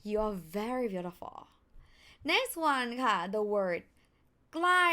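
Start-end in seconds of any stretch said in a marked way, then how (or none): 4.5-4.9 ใกล้ starting high and falling; falling tone demo. Shown as a demonstration. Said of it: "falling tone from high to low".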